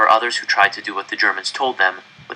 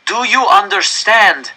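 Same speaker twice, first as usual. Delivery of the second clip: raised, higher demanding address; forceful official; 9 semitones higher, 5 dB louder than usual. Acted. Director arguing with the enraged crowd, raised and forceful. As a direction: force them to face the choice.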